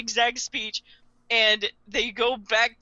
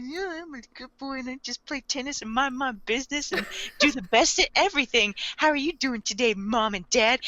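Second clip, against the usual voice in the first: put-on nice good boy; 2 semitones higher than usual. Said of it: "he's just always this nice".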